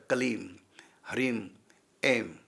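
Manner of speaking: कलीम, ह्रीम, एम each closed on m; pure syllables. Shown as a demonstration. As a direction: say कलीम, ह्रीम, एम apart with final m. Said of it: "बाकी है शुद्ध अक्षर".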